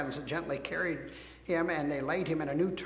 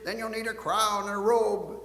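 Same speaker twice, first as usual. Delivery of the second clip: loud, mocking offer of a crown; jeering; 3 semitones higher, 5 dB louder than usual. Soldiers mock Jesus with a crown, loud jeering. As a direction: taunt him with it, louder. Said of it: "the Roman soldiers jeered".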